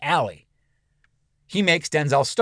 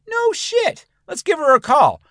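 much higher, loud cartoon thug; goofy killer voice; 14 semitones higher, 4 dB louder than usual. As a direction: play the dumb hitman, delighted. Killer finds cousin's ID.

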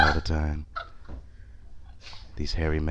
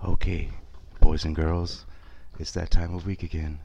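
announcer voice; 3 semitones lower than usual. Pretend. Mock announcer podcast intro.

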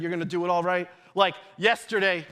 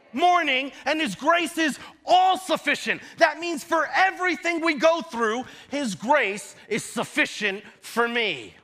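raised-pitch, emphatic preacher voice; fervent preaching; 5 semitones higher than usual. Real, not acted. Preacher assuring the congregation of God's grace, fervent preaching. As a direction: preach it with rising conviction.

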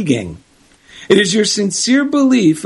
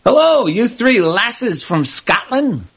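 friendly barfly voice; 4 semitones higher, slower than usual. Acted. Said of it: "so he approached and asked".

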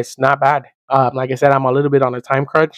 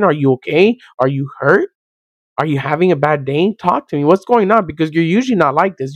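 concerned check-in; 3 semitones higher than usual. Pretend. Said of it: "with worry about their well-being".

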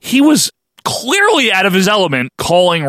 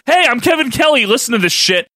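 Kevin Kelly voiceover; 5 semitones higher, faster than usual. Retold or imitated. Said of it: "he does the Place to Be Nation voiceover".

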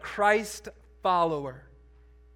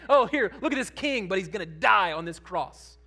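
mocking; 4 dB louder than usual. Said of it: "They're mocking him, saying".

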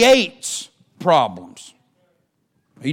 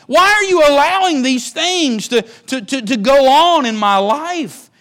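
anguished cry to God; 3 semitones higher than usual. Acted. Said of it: "cursed God and said".

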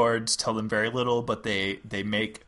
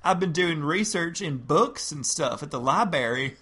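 high Southern belle voice; Southern lady voice; 5 semitones higher than usual. Acted. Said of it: "role play Carolyn and another overlord".

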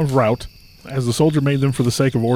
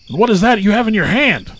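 suspicious devil guard; 9 semitones higher, 4 dB louder than usual. A narrator's reading. Devil sentry questioning.

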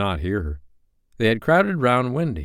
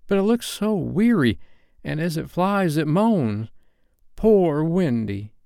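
put-on high, wondering boy's voice; awestruck; 8 semitones higher than usual.

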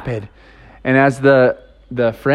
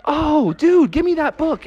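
higher, pleading dude voice; grabby friend; 11 semitones higher than usual. Retold or imitated. Friend begs Justin to hand over the book, high and pleading. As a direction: beg for the book.

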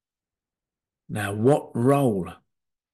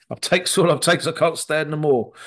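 Popeye; 3 semitones higher than usual. Retold or imitated. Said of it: "a bit like Popeye".

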